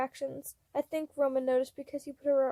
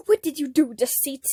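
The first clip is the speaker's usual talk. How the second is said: yell; 7 dB louder than usual. A narrator's reading. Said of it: "I yelled".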